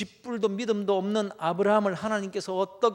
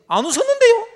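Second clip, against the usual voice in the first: much higher, feigned innocent denial; 15 dB louder, faster than usual. Acted. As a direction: play dumb, she's caught. Sarah denies laughing. (시치미 떼는 높은 목소리)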